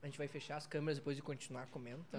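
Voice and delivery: talking while chewing; words round a bite of pizza; mouth full. Real, not acted. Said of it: "falar de boca cheia".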